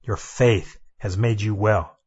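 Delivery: low, slow and solemn. Acted. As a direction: let each word land gently. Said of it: "Jesus said".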